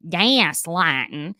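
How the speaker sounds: Southern accent, "gaslighting" stretched out very slowly with a rising end; slow Southern drawl. Real, not acted. Podcaster repeats the word for listeners, in a slow Southern drawl. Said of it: "my Southern accent is coming through".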